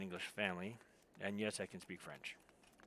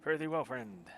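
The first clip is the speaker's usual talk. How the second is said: attempted French accent; 2 semitones higher than usual. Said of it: "I gotta get that accent a little bit better".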